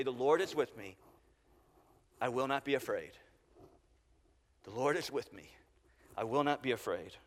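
low, soft, with long pauses between phrases; restful recitation. Shown as a demonstration. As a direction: let the verse settle, quietly reassuring. Resting in the repeated verse.

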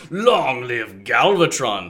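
slow, drawn-out villain proclamation; Galvatron voice. Acted. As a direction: stretch it out like a gloating tyrant. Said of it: "His voice is deeper".

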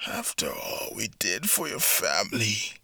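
menacing whisper. Acted. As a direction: hiss it under your breath. Revenge speech over beaten enemy.

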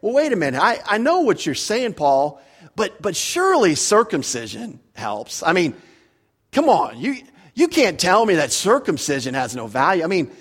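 lightly voiced protest to Paul; Jewish objector. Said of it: "the Jew is probably sitting back and say".

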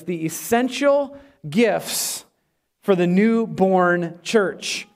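slow, each word weighted; slow announced title. Shown as a demonstration. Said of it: "here's my sermon title".

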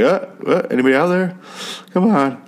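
high-pitched, needy mock radio call; mock desperate caller. Desperate stranger pressing the radio button for anyone, mock pleading. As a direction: imitate someone pleading into a radio.

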